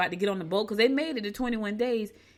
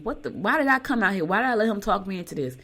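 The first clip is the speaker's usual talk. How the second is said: upset; 2 semitones higher, 4 dB louder than usual. Retold or imitated. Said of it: "she was upset".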